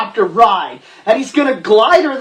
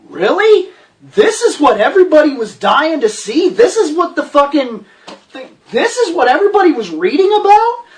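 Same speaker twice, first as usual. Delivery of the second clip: incredulous rant; 5 semitones higher than usual. Real, not acted.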